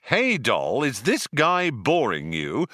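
high, pushy mimicked pickup line; brash chat-up. Arthur quotes Zaphod barging in on the girl, mockingly. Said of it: "when this friend of yours barges up and says".

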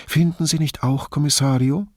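high, enraptured question; acted delight, pitched well up. A narrator's reading. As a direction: ask it as if utterly charmed. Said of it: "fragte sie noch mit entzückter Stimme".

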